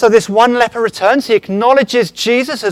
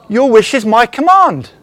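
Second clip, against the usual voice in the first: breathy, laughing whisper of a mock genie; genie granting a wish; 2 semitones higher, 5 dB louder than usual. Preacher voicing the genie from Aladdin, breathy and amused. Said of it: "And what does the genie say?".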